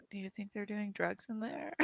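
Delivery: hushed, softly voiced aside; whisper to Milo. Player asks a companion about drugs, hushed mock whisper. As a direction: murmur it like a half-whispered secret. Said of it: "whisper to Milo".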